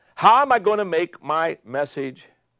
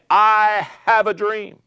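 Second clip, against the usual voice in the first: Martin Luther King; 7 semitones higher, 5 dB louder, much slower than usual. Retold or imitated. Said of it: "It's Martin Luther King saying".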